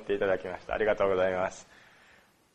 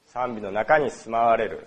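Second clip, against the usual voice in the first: slower and settled, leaning on 中; slow, simple restatement. Shown as a demonstration. Preacher restating the verse to the congregation, slow and simple. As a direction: say it plainly and slowly, landing on 中. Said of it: "それでいいと思います".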